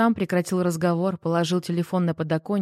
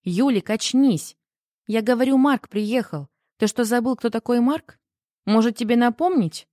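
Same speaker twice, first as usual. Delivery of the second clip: higher-pitched, exasperated wake-up call; insistent, slightly raised voice; impatient prodding; 4 semitones higher, 3 dB louder than usual. Acted. Sister snaps brother out of confusion.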